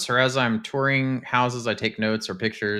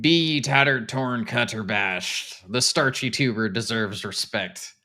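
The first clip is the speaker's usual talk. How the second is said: lightly voiced pirate. Streamer reading out a potato motto, light pirate voice. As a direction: read it with a hint of pirate. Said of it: "read that in a pirate voice".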